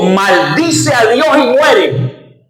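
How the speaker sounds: slow, lightly voiced wife spitting out the curse; wife's curse. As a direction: drag it out like a bitter taunt. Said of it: "Y le dijo". (la esposa, lenta y despectiva, apenas imitada)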